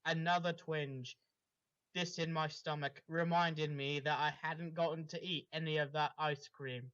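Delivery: dramatic read-aloud of a fanfic; story reading. Acted. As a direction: narrate it like the opening of a novel.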